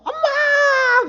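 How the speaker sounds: long, high, loud mock cry; imitated wailing child. Father imitating his child crying for mom in the ER, wailing. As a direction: mimic a bawling child calling out. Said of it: "엉엉 울면서".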